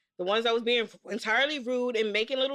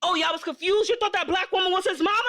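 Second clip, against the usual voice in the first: incredulous mocking; 7 semitones higher than usual. Ribbing the rude boys in the theater, incredulous. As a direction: rub in their mistake.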